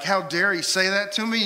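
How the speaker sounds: high, loud indignant outburst; offended. Acted. Insulted client about the counselor, indignant. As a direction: act out loud outrage at the insult. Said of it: "and get offended".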